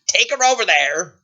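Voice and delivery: imperious and impatient; bossy princess. Acted. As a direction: order the guard around. Princess orders guard about.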